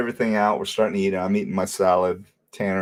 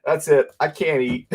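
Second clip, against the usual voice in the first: imitated fed-up son; 6 semitones higher than usual. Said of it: "And Tanner's like".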